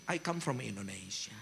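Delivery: soft, low and tender, slowing right down at the end; gentle sermon voice. Retold or imitated. Pastor retelling his soft tender speech to Israeli soldiers. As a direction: speak to them softly like a loving father. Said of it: "Aku ngomongnya begini".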